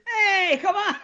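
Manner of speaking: high, laughing mock lure of a creepy stranger; hammed-up creep calling a kid over; creepy van stranger. Joking with co-host, mimicking a van stranger luring kids, high and laughing.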